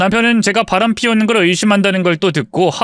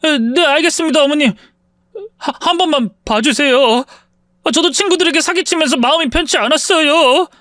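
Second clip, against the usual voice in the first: scared pleading; 7 semitones higher than usual. Acted. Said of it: "겁에 질려서".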